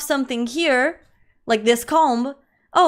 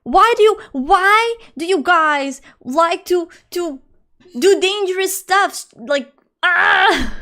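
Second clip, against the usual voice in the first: exasperated mock mom; 7 semitones higher, 4 dB louder, slower than usual. Mock mom scolding danger.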